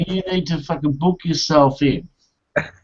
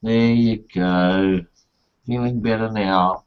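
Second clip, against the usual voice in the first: soothing nurse; 2 semitones lower, slower than usual. Retold or imitated. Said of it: "They'll go".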